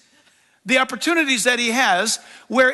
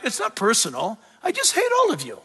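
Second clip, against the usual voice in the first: Satan's cold taunt; 3 dB quieter than usual. Retold or imitated. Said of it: "he would say tonight".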